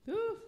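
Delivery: short, high "ooh" to recover; a high ooh after a hard memory; high exhaled ooh. Real, not acted. Pauses after painful memory.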